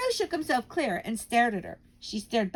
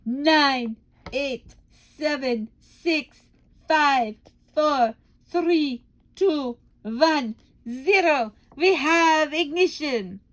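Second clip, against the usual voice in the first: gleeful countdown; 6 semitones higher, 7 dB louder, much slower than usual. Acted.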